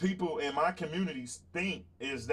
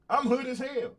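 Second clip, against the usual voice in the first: mock hood voice; 7 semitones higher than usual. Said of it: "they'll say that kind of shit about me".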